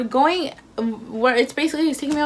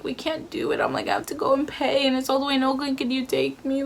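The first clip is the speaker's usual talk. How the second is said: retold crying plea; 3 semitones higher, 4 dB quieter than usual. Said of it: "I'm, like, crying".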